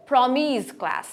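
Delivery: প্রমিস drawn out, ending in Z; final Z sound. Shown as a demonstration. Teacher uses own name, প্রমিস ending in Z. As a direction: stretch "প্রমিস" into a voiced Z. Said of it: "স না বলে জ বলবো".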